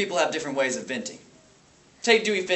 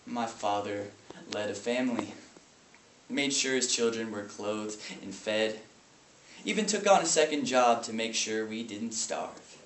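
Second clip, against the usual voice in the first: low, restrained recollection; subdued grief; 4 semitones lower, 5 dB quieter than usual. Acted. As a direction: recall it quietly, holding feeling back. Grieving brother recalls his father.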